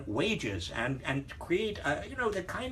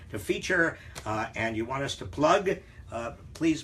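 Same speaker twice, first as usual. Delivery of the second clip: ordinary talk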